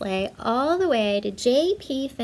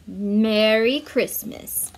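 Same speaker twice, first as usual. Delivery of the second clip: kindly Santa; 5 dB louder, slower than usual. Acted. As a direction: welcome her like old Father Christmas. Santa welcomes Dasher home.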